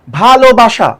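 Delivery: ভালোবাসা said as one joined word, evenly; slow pronunciation. Shown as a demonstration. Teacher introduces ভালোবাসা, pronouncing it carefully. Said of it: "ধীরে ধীরে উচ্চারণ করব".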